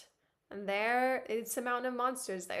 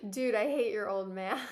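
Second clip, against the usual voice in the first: laughing; 3 dB louder than usual. Real, not acted. Laughing at character's dad.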